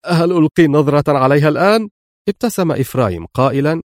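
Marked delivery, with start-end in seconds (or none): 0.1-1.9 put-on louder, pleading like an impatient child; eager plea. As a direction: beg to see the money now. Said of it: "في لهفة". (رجاء متلهف مرتفع)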